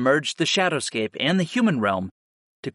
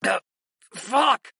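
high-pitched cry of sudden pain; grunt, then curse in pain; pained groan; 8 semitones higher than usual. A narrator's reading. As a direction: groan through a stabbing headache. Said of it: "I groaned as my hands flew".

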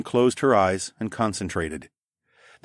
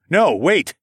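high, loud plea to stop; urgent protest; 9 semitones higher, 7 dB louder than usual. A narrator's reading. Narrator halting hostile wolfmen, urgent protest. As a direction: cry out in alarm, raised pitch.

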